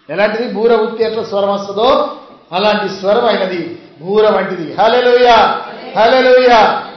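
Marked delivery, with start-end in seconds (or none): 4.7-6.9 ringing, louder praise call; fervent shouted hallelujah. Real, not acted. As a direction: lift the congregation with a cry. Preacher exclaiming praise.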